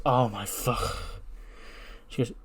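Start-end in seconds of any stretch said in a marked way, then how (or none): 0.1-1.2 dismayed gasp. Retold or imitated. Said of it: "Alexa just goes".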